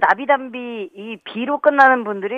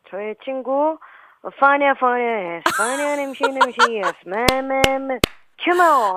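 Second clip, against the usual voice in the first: slow, drawn-out mock rapper intro; hammed-up hype MC intro; 4 semitones higher, much slower than usual. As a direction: play a swaggering MC announcing herself. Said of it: "제 목소리 또 누가 있을까요?".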